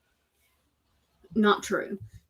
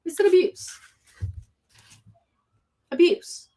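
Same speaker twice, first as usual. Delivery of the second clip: mock indignant protest; 7 semitones higher, 4 dB louder, faster than usual. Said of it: "was like".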